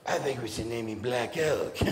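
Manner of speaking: mock parent voice through laughter; laughing mock quote. Mocking parents naming a kid, laughing. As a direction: laugh while imitating the parents.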